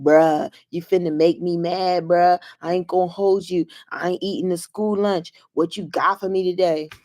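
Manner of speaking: hip eighth grader. Retold or imitated. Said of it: "when he talks to me like this".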